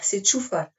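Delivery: "Čufar" redit avec le tch, plus doucement. Shown as a demonstration. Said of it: "c'est pas Kufar". (la bonne prononciation "Čufar", tch au début)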